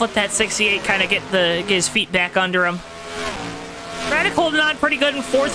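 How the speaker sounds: steady, rolling race-caster delivery; announcer voice. Real, not acted. Race streamer calling laps for viewers, announcer voice. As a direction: keep the broadcast energy going over the restart. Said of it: "my announcer voice like this".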